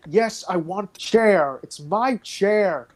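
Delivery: lightly voiced petulant demand; insistent Alan. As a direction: drag it out like a sulky child. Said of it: "And he's like".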